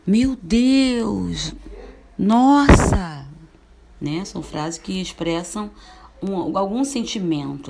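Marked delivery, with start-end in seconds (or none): 0.1-3.3 loud, high astonished cries; exclamation. Shown as a demonstration. Teacher demonstrating exclamative sentences, loud and amazed. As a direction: shout it out in amazement. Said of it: "Outro exemplo de frase exclamativa".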